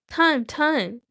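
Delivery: high squeaky cry of time; sudden squeal. Acted. Bilbo squeals at Gollum in sudden fright. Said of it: "sudden squeal".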